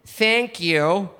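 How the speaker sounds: earnest American trying out foreign phrases; American learner proudly testing new words; American accent. Acted. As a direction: imitate a trusting American tourist. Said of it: "cool to hear an American going".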